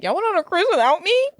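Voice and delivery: high, loud indignant question; can't believe they left you; outraged disbelief. Retold or imitated. Retelling Jenna's call to her parents, indignant. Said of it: "she's immediately like".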